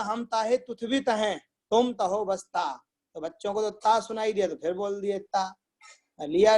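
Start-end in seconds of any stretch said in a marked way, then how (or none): 0.0-2.8 imitating a lisper, "त" sounds replacing "क"; mildly voiced lisping teacher; retold lisping. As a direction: say it with a childlike "ता" for "का". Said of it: "अपने भाव से बोला".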